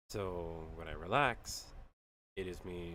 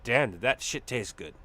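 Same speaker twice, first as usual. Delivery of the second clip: louder, delighted declaration; loud relish; 2 semitones higher, 12 dB louder than usual. Real, not acted. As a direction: proclaim how good it was. Savoring the cheese.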